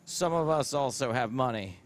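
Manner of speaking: put-on weak half-hearted French accent. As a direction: try a French accent, badly. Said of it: "do I have to do it in a French accent?".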